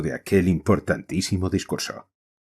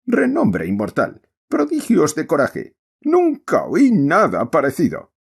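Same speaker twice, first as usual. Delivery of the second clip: shouted in praise; 6 semitones higher than usual. Acted. Miranda praising the general over the play, raised voice. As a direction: call it out over the theatre noise. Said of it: "Esto fue dicho a gritos".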